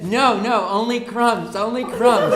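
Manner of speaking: mock-cruel stepmother, pressing the point; scheming mother. Mother insists on crumbs only.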